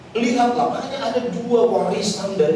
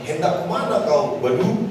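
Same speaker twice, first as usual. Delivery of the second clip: put-on Batak accent; 3 semitones lower than usual. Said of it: "Kalau orang Batak bilang kan ditanya".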